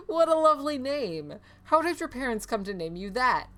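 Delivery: high, loud gush that settles; exclaiming. Acted. Priest admires a little girl's name, exclaiming. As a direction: gush over it like an amazed priest. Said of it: "cries the priest".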